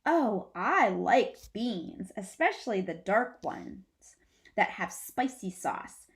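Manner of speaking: put-on dreamy kid. Alan voiced, loud slow.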